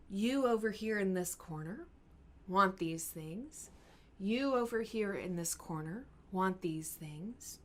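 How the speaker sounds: measured, deliberate turn-by-turn summing up; calm mediator. Acted. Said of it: "let's talk about them calmly".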